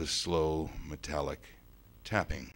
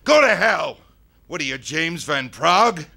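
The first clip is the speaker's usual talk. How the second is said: high, loud angry retort; angry outburst; 11 semitones higher, 14 dB louder than usual. Acted. Boy cuts off ghost claiming to channel his dad, angry outburst. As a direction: cut him off with a scornful shout.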